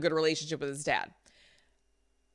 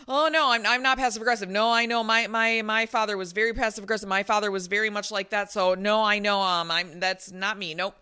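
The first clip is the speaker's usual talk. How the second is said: defensive denial. Retold or imitated. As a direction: imitate someone hastily brushing off an accusation. Acts coach's hurried denial.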